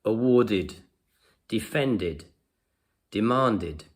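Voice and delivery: "Awarded, defended, demanded" each ending in an unstressed "id". Shown as a demonstration. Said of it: "they have the id sound at the end".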